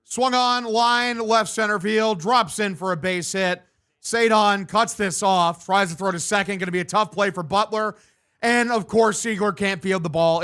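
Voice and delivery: brisk sportscaster call of the hit; live play-by-play. Acted. Gamer calling his own ballgame, announcer style.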